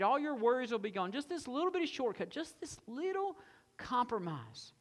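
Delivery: coaxing salesman, wheedling about the shortcut; tempter's pitch. Acted. The tempter luring listeners with a wheedling pitch. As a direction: sweeten the little shortcut.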